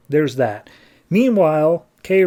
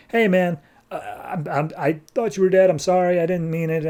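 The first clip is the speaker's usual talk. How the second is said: higher, hesitant mock apology; pleading apology; 5 semitones higher than usual. Cornered character to an old friend he wronged, pleading apology. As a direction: stammer out a retold excuse.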